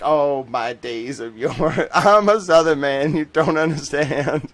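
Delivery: slow, hammed-up Southern lament; Southern accent cracking into laughter; put-on Southern accent. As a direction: wail it nostalgically in a mock Southern drawl. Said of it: "master the Southern drawl".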